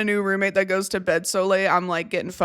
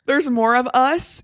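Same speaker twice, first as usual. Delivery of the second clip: mock alarm; 4 semitones higher, 4 dB louder, slower than usual. Real, not acted. Mock alarmed slow question.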